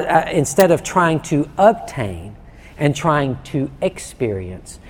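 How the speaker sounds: ordinary talk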